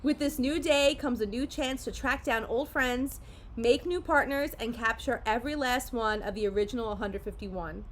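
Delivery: measured promotional read; card-set blurb read aloud. Real, not acted. Parent reading the box text to kids, read-aloud style. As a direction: read it out like an inviting product blurb.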